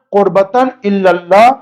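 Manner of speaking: الی اللہ said wrongly as "illal-lah", doubled L; قربتاً الی اللہ with "illa" in place of "ela"; mistaken pronunciation. Shown as a demonstration. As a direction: demonstrate the error "qurbatan illallah". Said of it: "غلط ہے".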